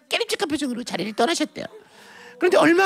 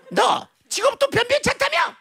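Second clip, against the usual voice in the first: high, haughty soap-opera challenge; melodrama mother; 8 semitones higher than usual. Acted. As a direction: sneer like a disapproving mother in a drama. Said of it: "무슨 막장 드라마의 한 장면처럼".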